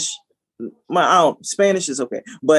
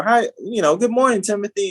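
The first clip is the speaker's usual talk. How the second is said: slightly raised office hello; mock polite greeting; 5 semitones higher than usual. Coworker turning to greet Timothy at work, mock polite. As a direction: put on a mannerly morning voice. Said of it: "to Timothy and they say".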